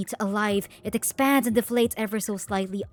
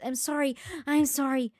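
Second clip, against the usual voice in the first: higher-pitched pleading; fervent apology; 5 semitones higher than usual. Acted. Praying to anyone who will listen, pleading apology. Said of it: "you pray fervently".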